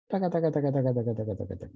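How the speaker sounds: walk the taca pattern downward in pitch; falling. Shown as a demonstration. Teacher demonstrating a falling line, taca chanted downward.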